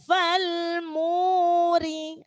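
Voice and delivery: "Fal muri" slow, the u held one alif long; recited with long vowel. Shown as a demonstration. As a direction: stretch the u in "muri" one beat. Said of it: "maka panjangnya satu alif". ("Fal muri" dengan mad satu alif)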